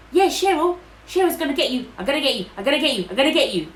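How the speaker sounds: imitated threats, fairly loud and repetitive; mock yelling, hammering out each threat; retold yelling abuse. Woman on the bus abusing someone, imitated angry yelling. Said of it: "all this yelling and abuse".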